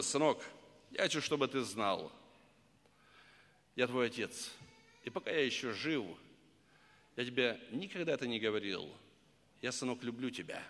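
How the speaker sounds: soft, hushed words to a son; quiet heartfelt confession to a grown son; tender confession. Retold or imitated. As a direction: say it gently, close to tears. Father confessing love to son.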